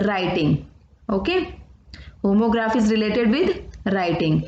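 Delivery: each English word read out slowly and clearly for notes; slow dictation. Acted. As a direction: spell out the definition for students to copy. Teacher dictates definitions slowly. (धीमे-धीमे notes लिखवाती teacher)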